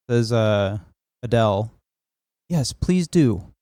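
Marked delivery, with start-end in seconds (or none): 2.5-3.5 slow, higher put-on voice; counselor's reply. Counselor inviting a confession, slow imitated reply. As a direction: play the counselor, drawing it out.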